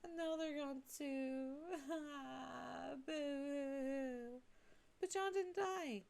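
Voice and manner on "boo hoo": mock crying. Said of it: "I'm no longer gonna do Jade Sprite crying".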